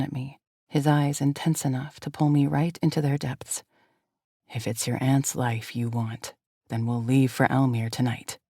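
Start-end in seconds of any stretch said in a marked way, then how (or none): 4.5-8.4 lower, steady leading man voice; deep-voiced male lead. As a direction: voice the hero calm and low. Male lead answers heroine.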